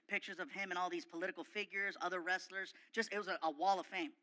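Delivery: ordinary talk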